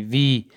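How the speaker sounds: وی as v plus long ee sound; German letter W. Shown as a demonstration. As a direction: say وی softly for German W, not "double-u". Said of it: "دبلیو انگلیسی وی هست در آلمانی".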